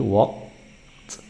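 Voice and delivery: "walked" slowed, as wokt; walked with t ending. Shown as a demonstration. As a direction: release a separate t in "walked". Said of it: "menggunakan bunyi t".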